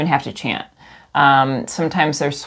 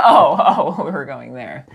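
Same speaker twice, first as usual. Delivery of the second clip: laughing; 4 dB louder than usual. Real, not acted. Laughs at shame joke.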